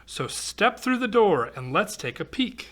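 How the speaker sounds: lively singsong storybook read-aloud; reading to children. Acted. Reading a rhyming picture book aloud to kids, lively storytelling. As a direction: read the rhyme to a young audience.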